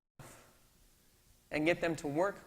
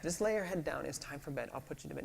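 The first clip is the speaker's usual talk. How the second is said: soothing dad; 4 dB quieter, faster than usual. Retold or imitated. Dad soothing child at bedtime.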